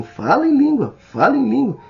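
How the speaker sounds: high, loud mock urging; imitated insistent command. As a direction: act out a pastor pushing for tongues, voice shooting up. Voz o pastor pressionando o batizando. (ordem insistente imitada, em voz aguda e alta)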